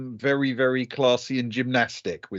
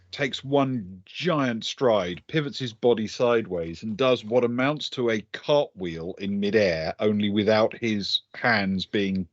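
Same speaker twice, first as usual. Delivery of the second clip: measured, deliberate storytelling with pauses; game master narration; 2 semitones lower than usual. A narrator's reading. Game master describing Stefan's leap, deliberate scene-setting narration. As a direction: draw out the action phrase by phrase.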